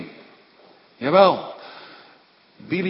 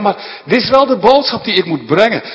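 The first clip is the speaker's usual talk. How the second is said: loud, high, resolute; Balaam insisting to Balak, loud; firm insistence; 6 semitones higher, 9 dB louder than usual. Acted. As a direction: hold your ground out loud. Balaam answering Balak firmly.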